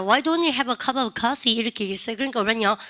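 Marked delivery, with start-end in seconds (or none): 0.0-1.5 slow acted invitation. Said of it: "내가 그랬어요".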